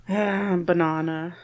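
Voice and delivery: Banana drawn out slowly with a long "ah"; slow "buh-NAH-nuh" for Banana; mispronunciation demo. Shown as a demonstration. Speaker faking British words as a joke, drawn out. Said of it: "mispronounce a word".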